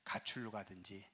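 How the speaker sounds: a grave whispered aside; hushed whisper. Real, not acted. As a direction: lean in and whisper it. Pastor warns of depression.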